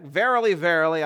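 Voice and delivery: VERILY said loudly both times; very emphatic. Retold or imitated. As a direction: hit each VERILY hard. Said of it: "very emphatically saying this".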